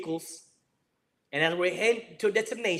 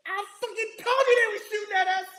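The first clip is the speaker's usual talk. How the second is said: triumphant shout; 11 semitones higher than usual. Retold or imitated. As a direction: yell it, finally proven right. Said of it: "I said".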